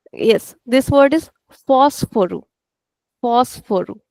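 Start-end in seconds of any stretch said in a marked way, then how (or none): 1.7-4.0 "fósforo" with long "fós", short rest; stretched first syllable. Shown as a demonstration. Teacher correcting the class's word, stretched on FÓS. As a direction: draw out FÓS, keep "foro" small. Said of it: "only fos is extended".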